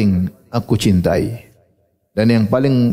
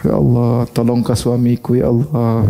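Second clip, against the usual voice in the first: imitated heartfelt night prayer; lightly acted wife at prayer; praying wife; slower than usual. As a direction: plead gently, drawing out the holy name. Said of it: "istrinya lagi sholat malam berdoa".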